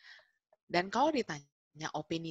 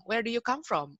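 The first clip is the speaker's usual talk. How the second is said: lightly acted pedant, higher and louder; grammar Nazi correction; 6 semitones higher, 5 dB louder than usual. Shown as a demonstration. Grammar stickler shows a learner the right question, raised insistent voice. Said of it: "terus di grammar Nazi ini nanti".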